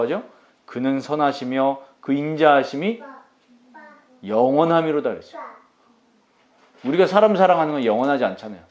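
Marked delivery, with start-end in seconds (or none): 0.6-5.1 slow scripture reading. Shown as a demonstration. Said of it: "시편 백칠 편 일 절에 보면".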